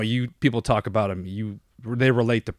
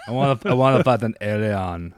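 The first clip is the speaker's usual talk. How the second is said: put-on Arnold Austrian accent. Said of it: "the worst Austrian accent".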